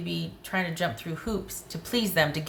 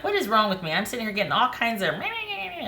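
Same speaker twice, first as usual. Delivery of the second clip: mock whiny self; 5 semitones higher than usual. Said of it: "'cause I'm like".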